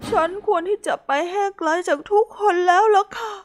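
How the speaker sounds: high, tearful and defeated; sorry, wanting to vanish; high teary resignation; dejected apology. Acted. Hippo gives up, dejected.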